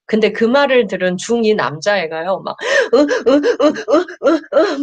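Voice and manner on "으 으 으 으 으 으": mock sobbing grunts, higher and strained; imitated sobbing. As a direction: act out a boy breaking into sobs. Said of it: "막 이러고 울었다는 거예요". (아이가 우는 소리를 흉내 낸 흐느낌)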